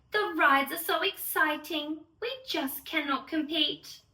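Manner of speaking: put-on gentle, measured read-aloud for children; storybook rhyme reading. Fairy host reading the Lola story to children, gentle and measured. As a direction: read it like a bedtime picture book.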